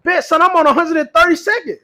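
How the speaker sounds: mock New York street voice; New York accent. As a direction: imitate an eager New Yorker. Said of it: "my New York accent".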